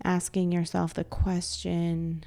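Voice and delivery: soft, calm meditation voice with long pauses; guided meditation. Acted. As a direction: gently guide them into stillness, leaving space to breathe.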